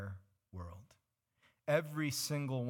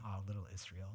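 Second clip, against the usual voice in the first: soft, low and fond; friendly; 6 semitones lower, 8 dB quieter than usual. Shown as a demonstration. Preacher contrasting God's tender address, soft and fond. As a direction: coo it gently. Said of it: "as opposed to".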